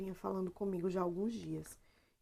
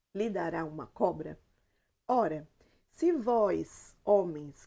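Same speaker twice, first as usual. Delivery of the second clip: scripture reading. Acted. Reads Bible passage aloud.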